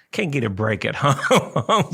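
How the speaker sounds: laughing through the words, slowed down. Real, not acted. Radio host joking about his wife, laughing slowly. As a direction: chuckle your way to the end.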